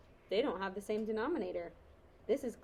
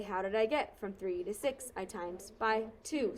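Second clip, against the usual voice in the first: classroom robot voice, lightly done. Shown as a demonstration. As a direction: say it like a robot, evenly. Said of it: "I turn on my robot voice and I say".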